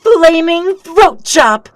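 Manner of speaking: drawn-out war cry; battle shout. Acted. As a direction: bellow the move's name as you strike. Shouted attack name.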